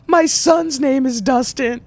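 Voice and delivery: high, drawn-out mock hysteria; slow, high-pitched fake distress; imitated freak-out. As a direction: imitate an overwrought stranger butting in. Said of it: "like, freaking out".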